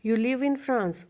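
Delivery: You live in France with the pitch falling at the end; falling statement tune. Shown as a demonstration. Teacher contrasts a statement with the rising tag. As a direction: keep it a flat fact, voice going down. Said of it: "rising नहीं है ये वाली".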